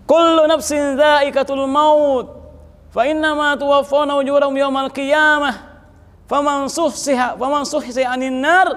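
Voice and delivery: slow, ringing opening that calls out, then settles; forceful Quranic recitation. Shown as a demonstration. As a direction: proclaim the verse like a preacher.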